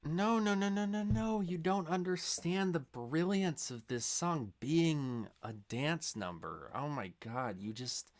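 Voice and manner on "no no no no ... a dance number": high, loud flurry of objection; worked-up, impassioned rebuttal; exasperated protest. Acted. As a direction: protest in disbelief, pitched way up. Mock outrage at the critic's take.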